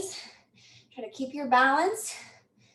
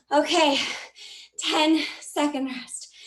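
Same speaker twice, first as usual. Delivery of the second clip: breathless whisper, slow; winded, barely voicing it; out of breath; slower than usual. Real, not acted. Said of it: "That one gets my heart racing".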